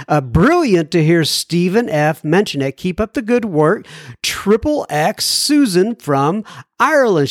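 measured radio host reading; clear, deliberate mail-segment read; letter read aloud. Acted. Reads a listener's letter aloud.

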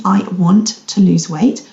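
"want" slowed and emphasised; stress on want. Shown as a demonstration. Coach revisits the jarring sentence, stress on "want". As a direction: give "want" the weight, unhurried. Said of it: "the emphasis on the word want".

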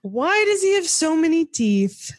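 high, horrified and laughing. Real, not acted. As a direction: recoil in horror at the picture. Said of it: "I wanna see your face".

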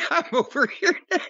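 high, laughing echo of the line; laughing mimic of cohost. Jim teasing his cohost by echoing him, high and laughing. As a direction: parrot his words back while cracking up.

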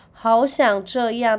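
wistful drawn-out sigh. Acted. Wishing to stay in bed.

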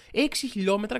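«Έξι» lifted on a rise, mock amazement; sarcastically impressed. Shown as a demonstration. Mocking the article after finally getting a number, sarcastic awe. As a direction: echo «Έξι χιλιόμετρα» with a rising mock wow. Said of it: "τώρα εντυπωσιάστηκα".

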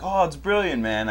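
put-on a weak stab at a British accent, admiring the costume. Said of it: "I can't do a good British, you know, accent".

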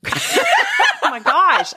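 slow, high, laughing through it; cracking up mid-line. Real, not acted.

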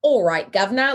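lightly put-on Cockney; Cockney accent. Shown as a demonstration. Host demonstrating the actress's real accent, light Cockney. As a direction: give it a quick mock Cockney lilt. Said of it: "like, a Cockney".

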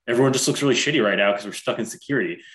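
fast, laughing through the words; laughing while retelling. Real, not acted. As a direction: rush it out, laughing at the memory. Retelling a funny airport moment.

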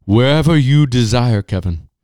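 hammed-up jolly Santa granting a wish. Podcast host as Santa to Kevin, mildly jolly and loud.

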